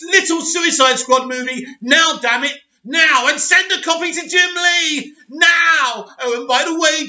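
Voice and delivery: high-pitched shouted orders; hammed-up studio boss yelling orders; panicked boss shouting. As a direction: bark commands at him in a panic. Boss barking orders at Gunn.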